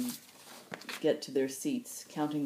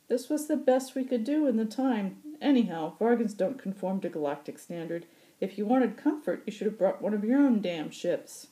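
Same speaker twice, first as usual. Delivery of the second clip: put-on gruff old pilot; 8 semitones higher, 6 dB louder than usual. Occam voiced, chatting.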